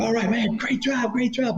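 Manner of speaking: high, lightly mocking praise; a cheesy pat on the back. Agent congratulating the newbie, high mock praise. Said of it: "And he's like".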